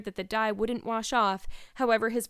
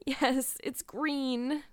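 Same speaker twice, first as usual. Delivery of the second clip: higher, miserable moan; 5 semitones higher, much slower than usual. A narrator's reading. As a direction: moan the admission in despair. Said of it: "moaned Anne".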